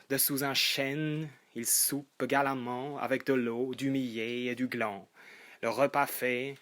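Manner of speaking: lightly declaimed satirical verse; animated poetry reading in measured phrases; poem recitation. Acted. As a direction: address the verse to Adam and Eve.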